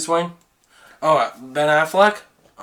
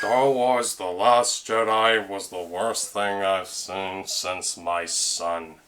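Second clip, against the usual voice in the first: Mister Plinkett; 9 semitones lower, 9 dB quieter, slower than usual. Retold or imitated. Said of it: "Is that Mister Plinkett?".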